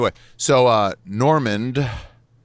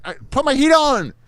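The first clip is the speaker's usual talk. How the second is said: squeaky mock voice; 6 dB louder than usual. Mocking landlord's fix, squeaky.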